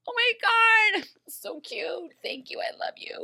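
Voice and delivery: high, breathy gushing whisper; mock gushing whisper. Snow thanking Charming, in a mock gushing whisper. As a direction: gush under your breath, starstruck. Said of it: "she's just like".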